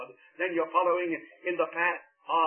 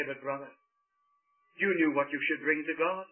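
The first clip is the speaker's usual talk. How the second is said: gentle pleading; 3 semitones lower, 4 dB quieter than usual. Acted. Abel gently pleads with Cain.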